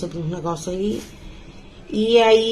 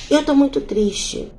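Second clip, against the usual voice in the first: high, slow, tearful imitation; imitating her crying; 6 semitones higher, slower than usual. Grieving mother ignored by her daughter, mock tearful. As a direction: drag it out like a weeping woman. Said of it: "veio chorando".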